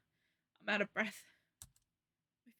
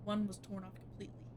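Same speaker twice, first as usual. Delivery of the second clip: steady storyteller voice; story narration; 3 dB quieter than usual. A narrator's reading. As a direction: read it like a creepy tale. Narrates horror game text.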